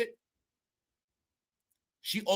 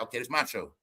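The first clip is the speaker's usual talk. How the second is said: mock a singer; 9 semitones lower, 8 dB quieter, faster than usual. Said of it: "she was like".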